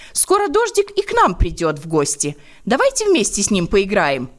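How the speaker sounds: joyful. Acted. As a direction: chirp it out happily. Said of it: "радостно продолжала".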